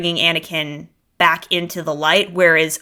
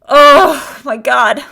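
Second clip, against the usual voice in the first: excited squeal; 7 semitones higher, 7 dB louder, much slower than usual. Real, not acted. Gushing over a favourite scene.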